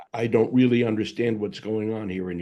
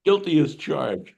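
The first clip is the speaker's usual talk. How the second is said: pleading confession; 2 semitones higher, 3 dB louder than usual. Retold or imitated. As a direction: beg for a break, owning up. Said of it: "you're acknowledging".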